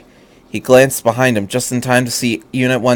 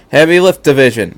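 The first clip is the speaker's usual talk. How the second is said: louder command call; shouted order; 3 semitones higher, 5 dB louder than usual. Acted. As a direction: call the division in. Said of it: "Misato shouted".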